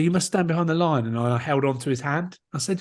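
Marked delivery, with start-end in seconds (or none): 0.0-1.0 imitated French official's order; French accent. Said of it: "He was French".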